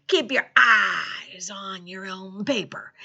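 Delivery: slow punchline with a drawn-out "eyes"; a hint of pirate, stretching "eyes"; lightly voiced pirate. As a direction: deliver it slowly as a pirate joke.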